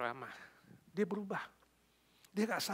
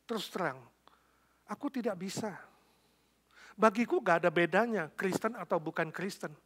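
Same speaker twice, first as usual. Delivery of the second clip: mild mock anger, higher pitch; suami marah; 4 semitones higher, 5 dB louder than usual. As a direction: act out an annoyed husband pushing back. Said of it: "Suaminya marah, mengatakan". (suami kesal, marahnya ditahan)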